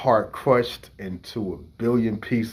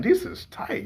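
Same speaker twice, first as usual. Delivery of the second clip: high, thrilled little exclamation; excited kid. Retold or imitated. Young brother gushing over the song, high and thrilled. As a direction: gush over it like a kid hearing it first. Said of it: "because I'm like".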